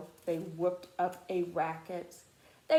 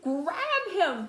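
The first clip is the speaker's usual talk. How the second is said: louder command to grab; shout; 7 semitones higher, 5 dB louder than usual. A narrator's reading. The mob shouts to seize Horton. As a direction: bark the order to seize him. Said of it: "they shouted".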